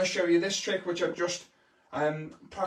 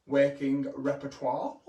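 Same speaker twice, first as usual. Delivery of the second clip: mock posh; 5 semitones lower, slower than usual. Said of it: "that's a very posh word".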